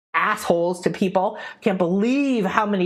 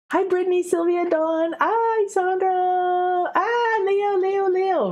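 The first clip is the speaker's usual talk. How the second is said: bright greeting; 11 semitones higher, slower than usual. Real, not acted. Greeting live chat viewers by name.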